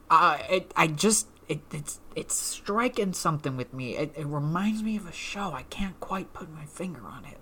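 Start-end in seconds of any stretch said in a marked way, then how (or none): 1.5-7.4 soft mock conspiratorial whisper. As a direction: whisper the knowing hint. Mock secretive hint.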